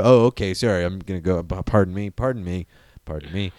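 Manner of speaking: fading, apologetic backing away; meek retreat. Acted. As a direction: slink off apologizing. Alien backing off meekly.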